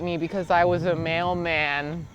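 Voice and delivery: high, loud put-on voice of a dog; silly dog voice. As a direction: play a dog who hates cars. Playing a dog character.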